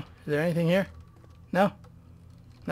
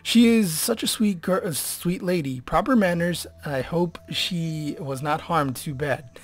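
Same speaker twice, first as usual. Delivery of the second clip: hammed-up news reader; 6 dB louder than usual. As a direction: proclaim it like an old newsreel. Reads in-game document in voice.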